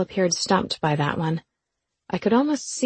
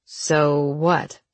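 teasing lovesick sing-song; 3 semitones lower than usual. Acted. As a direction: mimic her sing-song lilt. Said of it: "mimicked my lovesick grin and sing-song voice".

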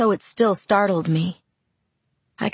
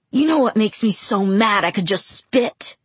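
furious; 4 semitones higher than usual. Acted. Jacob furious at Bella.

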